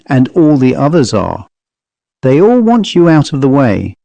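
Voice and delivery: lightly voiced Cockney manservant, urging; mildly urgent Cockney appeal; pleading Cockney servant. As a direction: beg the master to stay safe.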